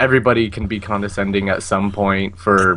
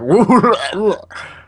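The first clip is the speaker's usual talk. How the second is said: acted whoop; 8 semitones higher than usual. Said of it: "be like".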